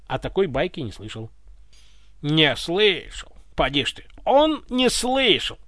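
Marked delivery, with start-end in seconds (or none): 2.2-5.6 slow, indignant stress; the tsar scolds Ivan indignantly. Acted. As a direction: drag out the outrage. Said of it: "возмутился царь".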